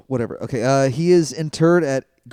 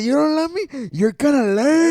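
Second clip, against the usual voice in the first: Eddie impression; 11 semitones higher, 4 dB louder than usual. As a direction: voice Eddie scolding his son. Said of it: "he said".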